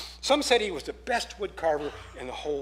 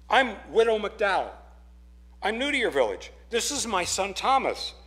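widow's voice; 4 semitones higher, 4 dB louder than usual. Acted. Widow introduces herself at door.

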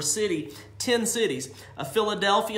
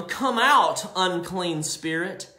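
commanding the spirit; slower than usual. Acted. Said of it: "For he said to them".

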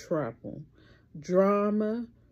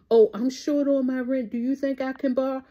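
a bit higher and quicker, a mild mock plea; lightly voiced friend begging for rent money; pleading borrower; 5 semitones higher, 3 dB louder than usual. Vlogger mimicking a friend short on rent, mock plea. Voicing someone asking for money.

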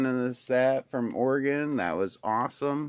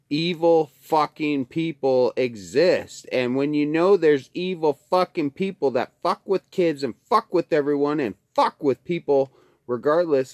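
angry rant; 2 semitones higher, 4 dB louder than usual. Real, not acted. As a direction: lean into each word with rising fury. Angry rant about evil people.

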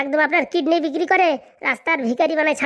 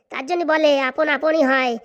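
slow, weighted proverb; bitter resignation; slower than usual. Acted. Hurt relative now treated as a stranger, bitter. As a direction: spell out the hurt slowly. Bitter saying after being disowned.

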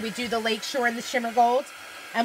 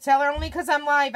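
raised, slightly higher call; 4 semitones higher, 4 dB louder than usual. Real, not acted. Host explains she is live to someone off camera, calling out. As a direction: call a message through to another room.

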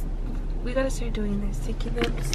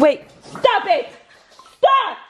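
laughing protest; 7 semitones higher, 4 dB louder, slower than usual. Real, not acted. Dog acting up, laughing.

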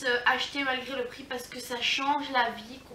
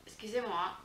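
hiccups; 4 semitones lower, 7 dB louder than usual. Real, not acted. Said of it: "j'ai le hoquet".

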